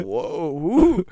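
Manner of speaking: mock wonder, swooping upward; imitating that voice. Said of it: "every time you do that voice, you're like".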